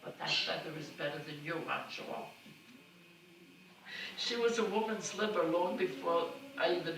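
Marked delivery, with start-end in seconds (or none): 0.0-2.3 mother retorting. Retold or imitated. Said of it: "She had answers for everything".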